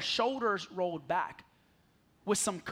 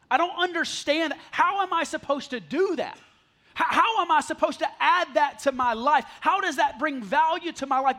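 frustrated objection; 3 semitones higher, 3 dB louder than usual. Retold or imitated. Pastor voicing frustrated reader.

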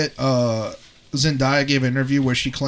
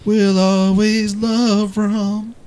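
laughing; 6 semitones higher, 4 dB louder, much slower than usual. Real, not acted. Laughing sign-off to Rom.

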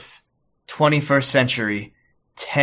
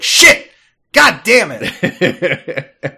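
louder yelp of pain with a laugh; mock pained yell; 4 semitones higher, 6 dB louder, much slower than usual. Imagining the Doctor stubbing his toe, a laughing mock yell. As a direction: yell like you just stubbed your toe. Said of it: "stub his toe and be like".

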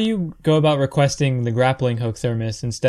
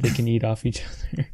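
whispered joke; 3 semitones lower, 5 dB quieter than usual. Real, not acted. Joke about action figures.

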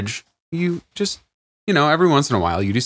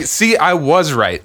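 slow, higher told-you-so; mock triumphant; 4 semitones higher, 4 dB louder, slower than usual. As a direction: crow it slowly, playing vindicated. Acts out husband's triumphant line.

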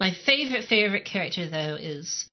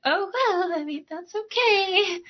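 much higher, sing-song bubbly brush-off; overly cheerful Kaylee; 11 semitones higher, slower than usual. Retold or imitated. Mocking a too-happy engineer with a cheery high voice. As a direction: play it sunny as if nothing's wrong.

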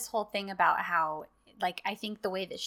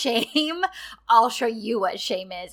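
retold outburst; 6 dB louder than usual. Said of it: "And she freaks out".

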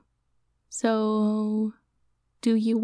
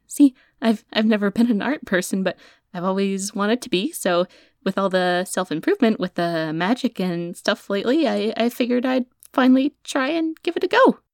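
nervous; 3 dB louder than usual. Acted. Nervously lying about his reason.

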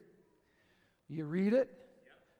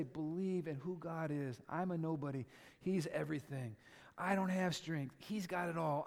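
soft closing; 5 dB quieter than usual. Acted. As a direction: bring it down and speak close. Quiet intimate closing.

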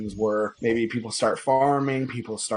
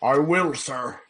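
put-on little boy voice; 3 semitones higher than usual. Boy Rufus answers mentor.

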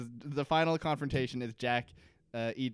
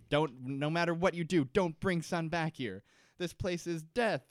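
urgent retold plea, slightly higher; imitating a panicked warning; mild retold panic; 4 semitones higher than usual. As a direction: warn them urgently, lightly acted. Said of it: "starts talking in Korean to Jin in panic".

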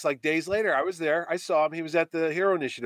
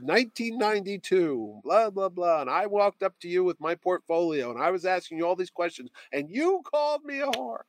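higher-pitched mock accusation, rising at the end; retold accusation; 4 semitones higher than usual. Confronting the artist who once insulted him, mildly indignant. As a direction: lay out an old grievance, pitch climbing.

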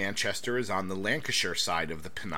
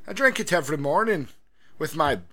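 hammed-up English gent, louder and proud; mock English gent; 5 semitones higher, 6 dB louder than usual. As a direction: play a fake posh Englishman who loves tea. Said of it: "playing the Englishman, mock answer".

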